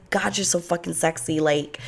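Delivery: softly murmured come-on, imitating him; imitated sweet nothings. Guy on the dance floor into her ear, imitated soft murmur. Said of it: "He's whispering sweet nothings in my ear".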